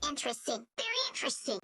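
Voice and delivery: breathy whisper of interest; whispered comment. Acted. Miku whispering her reaction to the fun fact. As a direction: whisper it conspiratorially.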